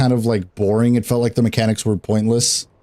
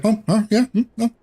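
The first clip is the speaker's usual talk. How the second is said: teasing raid leader; 4 semitones higher than usual. Retold or imitated. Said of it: "Bubba would be like".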